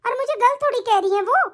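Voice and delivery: indignant, pleading run of protest; talking back. Acted. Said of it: "देख ले इसकी जबान कैसे चल रही है, लपर लपर".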